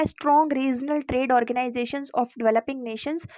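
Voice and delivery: slow, even dictation of the heading; dictating pace for notes; slow heading read. Acted. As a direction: read it out slowly so students can note it down. Reads the suggestion heading slowly.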